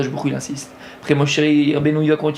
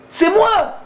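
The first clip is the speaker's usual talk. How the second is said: God proclaiming; 13 semitones higher than usual. Acted. God's declaration, acted.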